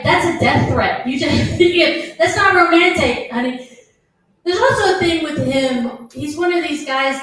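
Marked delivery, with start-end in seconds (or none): 0.0-3.7 indignant. Retold or imitated. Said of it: "I'm like".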